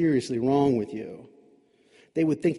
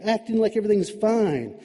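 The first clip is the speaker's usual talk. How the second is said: angry accusation; 4 semitones higher, 3 dB louder than usual. Acted. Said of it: "Adam's anger overcame his fear".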